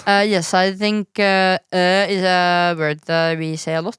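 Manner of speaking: halting, put-on Norwegian English; Norwegian accent. Shown as a demonstration. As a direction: lay on a thick Norwegian accent. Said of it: "I do a Norwegian accent".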